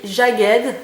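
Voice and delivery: Jagged said the French way, zha-GHED; French accent. Shown as a demonstration. Vlogger naming the eyeshadow shade to viewers with a French accent. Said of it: "avec l'accent français toujours".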